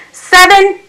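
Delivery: father yells. A narrator's reading. Father on the ground yelling to silence his son, commanding yell. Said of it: "Daddy yells".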